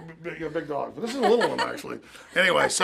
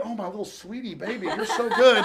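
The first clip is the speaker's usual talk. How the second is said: imitating doting pet talk; acted cooing; 2 semitones higher than usual. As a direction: coo over a sweet baby, half in jest. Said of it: "literally sitting there today in Du's office going".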